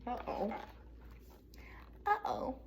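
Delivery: small worried uh-oh; quiet dismayed uh-oh. Acted. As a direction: sense trouble coming. Hamster sees pepper falling.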